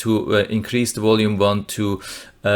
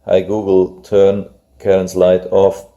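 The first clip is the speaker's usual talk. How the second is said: repeating to voice assistant; 2 semitones lower, 5 dB louder than usual. Real, not acted. Repeating the command after the speaker failed.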